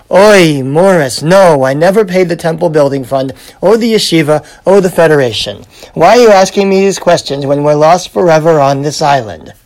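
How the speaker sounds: lightly voiced Yiddish wife, exasperated; exasperated old Jewish wife, a hint of accent.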